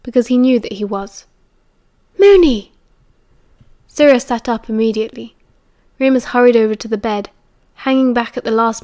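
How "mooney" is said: high, loud delighted call; eager greeting. Acted. Sirius sits up as Remus comes in, eager greeting. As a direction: call out the nickname, high and falling.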